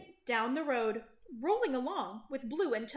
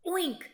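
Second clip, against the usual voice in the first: squealing oink; 5 semitones higher than usual. A narrator's reading. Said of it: "squealed Pig".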